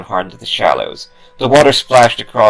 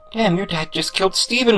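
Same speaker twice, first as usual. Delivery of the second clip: shocked yell; 12 semitones higher than usual. Acted. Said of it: "Marcus yelled".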